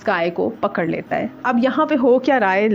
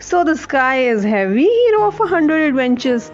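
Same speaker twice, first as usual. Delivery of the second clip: slow, mocking, rising higher on the hero part; sarcastic; 4 semitones higher, much slower than usual. Atlas taunting the exhausted Hercules, sarcastic. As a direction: sneer at the so-called hero. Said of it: "बहुत sarcastic tone में".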